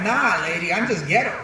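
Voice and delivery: lightly put-on street accent; a hint of street New York accent; old ghetto accent. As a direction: toss it back in a ghetto accent. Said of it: "that's how I used to sound".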